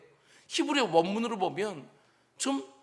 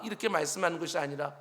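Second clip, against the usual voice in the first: normal talking voice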